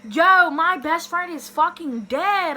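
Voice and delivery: loud, high, drawn-out alarm; retold panic. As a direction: re-enact panicking for your best friend. Retold panic over missing friend.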